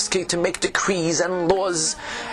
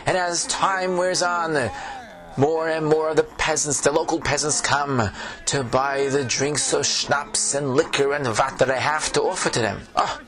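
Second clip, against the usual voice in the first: put-on old tavern keeper, Yiddish accent; fretful innkeeper with a Yiddish lilt.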